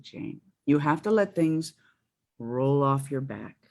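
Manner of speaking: mildly imitated teacher, slowing down at the end; calm advice. Guest teacher advising a wound-up student, calm and measured. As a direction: let "roll off your back" ease out slowly.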